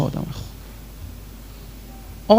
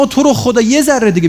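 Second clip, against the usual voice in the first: quick, raised begging plea; pleading student; 7 semitones higher, faster than usual. Retold or imitated. Student pleading with the teacher for time, fast and raised. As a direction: beg for one more minute.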